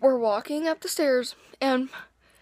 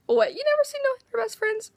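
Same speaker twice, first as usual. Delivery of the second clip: sassy comeback; 12 semitones higher than usual. Retold or imitated. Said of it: "I was like".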